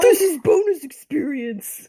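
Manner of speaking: hammed-up capital-letters read-out; all-caps announcement. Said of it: "Why'd you read my capital letters".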